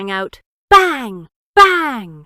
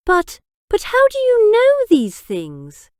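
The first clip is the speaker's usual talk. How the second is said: stunned; 12 semitones higher, 7 dB louder than usual. A narrator's reading. Biggs stunned by Jack's knowledge.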